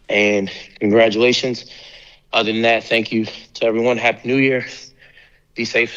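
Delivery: breathless after rushing in; short of air, catching breath. Real, not acted. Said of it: "Sorry, kinda out of breath".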